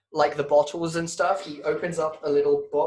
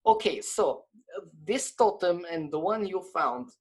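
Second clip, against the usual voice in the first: put-on Russian accent; 3 semitones higher than usual.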